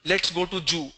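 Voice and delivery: zoo said as "Jew", with a j; j replacing z in "Jew"; imitated mispronunciation. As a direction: mimic the error: "Jew" for zoo. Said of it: "they replace that with".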